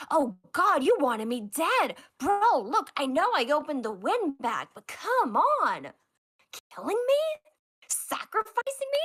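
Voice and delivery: rising outrage, pitch climbing high; outraged crewman. Acted. Crewman accusing captain Odysseus, outraged and high.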